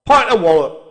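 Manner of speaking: put-on loud demanding old cockney; aggressive. A narrator's reading. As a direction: bark the order at the barman. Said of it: "he added aggressively to the barman".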